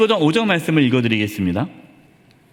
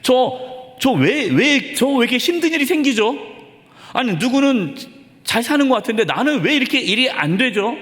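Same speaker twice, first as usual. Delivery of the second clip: frustrated plea; 5 semitones higher than usual. Retold or imitated. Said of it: "이해가 안 되면".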